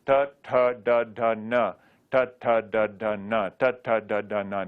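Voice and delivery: crisp drilled syllables ta ta da da na; Sanskrit cerebral syllables. Shown as a demonstration. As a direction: tap each syllable out clearly for the class. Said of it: "So let's do this one".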